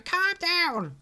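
high, loud mock scream; acted-out frantic shout; retold yell. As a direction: yell it in imitation of a panicked character. Retelling the yelled reply again.

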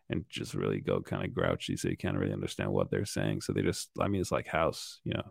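very low, soft grouchy mumble; mock-American voice sunk very low; really low, grouchy. Shown as a demonstration. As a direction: drop right down into a grouchy mumble. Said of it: "they just tend to go really low".

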